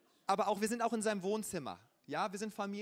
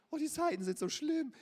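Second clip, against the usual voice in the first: mock lament; 8 semitones higher, 6 dB louder than usual.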